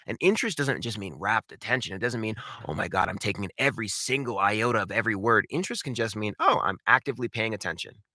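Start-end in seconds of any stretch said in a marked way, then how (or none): none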